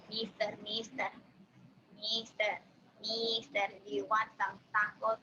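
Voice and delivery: put-on Mexican accent. Shown as a demonstration. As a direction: pester like a vendor with a Mexican accent.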